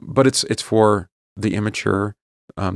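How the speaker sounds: ordinary delivery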